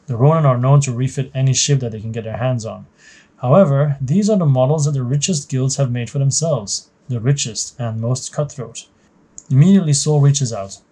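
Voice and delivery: measured, even story read-aloud; story narration. A narrator's reading. Narrator setting the scene for a new trainee pilot, story narration. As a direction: narrate it like a mission briefing.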